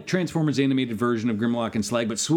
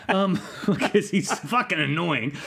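bee voice; 3 semitones higher, slower than usual. Retold or imitated. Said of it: "and I'll do Bumblebee's voice".

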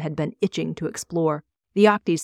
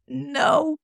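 high-pitched frightened no; a terrified man's plea; trembling; 9 semitones higher than usual. A narrator's reading. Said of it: "he trembled".

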